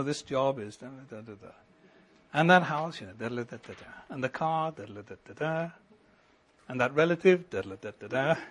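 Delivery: a mock grumble that trails into mumbled syllables; grumbling mutter. Shown as a demonstration. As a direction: mutter complaints under your breath, fading off. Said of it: "all of these are mutterings".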